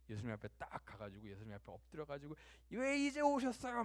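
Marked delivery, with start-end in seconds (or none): 2.7-3.8 high, loud, drawn-out reproach; acted outburst of resentment; resentful protest. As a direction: wail it as an accusing complaint. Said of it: "막 그 원망을 드러냈잖아요".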